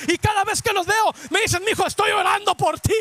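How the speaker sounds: driving, impassioned sermon delivery; full-force preaching. Real, not acted. Preacher urging congregation to keep praying for family, fervent preaching. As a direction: build insistent phrases to rouse the congregation.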